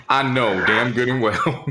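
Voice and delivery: slow, laughing I know damn good and well, drawn out; laughing disbelief. Shown as a demonstration. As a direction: stretch it out through a laugh of disbelief.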